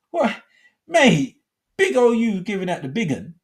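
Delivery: high-pitched mock disbelief; incredulous ribbing. Host ribbing the workmate who bragged, high incredulous voice. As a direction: tease a mate, voice shooting way up.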